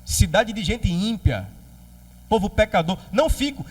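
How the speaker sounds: indignant Jonas. Acted. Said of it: "como quem diz assim".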